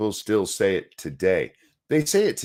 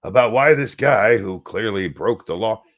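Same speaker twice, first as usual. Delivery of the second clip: indignant mock; 4 dB louder than usual. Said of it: "they're like".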